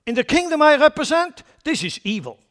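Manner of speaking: bold rebuke. Retold or imitated. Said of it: "And John said".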